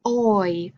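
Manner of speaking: "oi" modelled for the class, gliding o into i; diphthong sound demo. Shown as a demonstration. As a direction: show the glide in "oi" clearly. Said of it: "So you can see my mouth changed".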